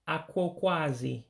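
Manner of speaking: Aquaquasi in careful, even syllables; careful pronunciation. Shown as a demonstration. Teacher repeating the word for postcard, Aquaquasi sounded out carefully. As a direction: model Aquaquasi clearly for a learner to copy. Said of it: "in order to pronounce it correctly".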